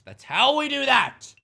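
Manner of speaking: high drawn-out sing-song. Shown as a demonstration. Streamer repeating a catchphrase to chat in a high stretched voice. Repeating the phrase, third take.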